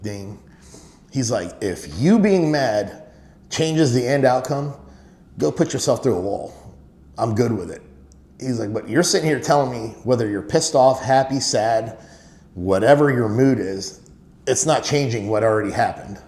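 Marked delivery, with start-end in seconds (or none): 1.6-7.8 retold exasperated lecture, easing toward the end; pissed-off dad. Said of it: "He was kinda pissed". 8.7-16.2 retold fatherly scolding, louder, insistent; imitating an exasperated dad's lecture; pissed-off dad. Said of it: "He was kinda pissed".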